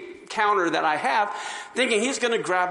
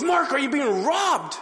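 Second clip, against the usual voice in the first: loud boss; 7 semitones higher, 3 dB louder than usual. Retold or imitated. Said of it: "he said it so loud".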